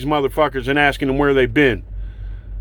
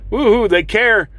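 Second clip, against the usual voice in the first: sarcastic cheer; 5 semitones higher than usual. Acted. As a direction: cheer them on with open scorn. Sarcastic cheer about caring.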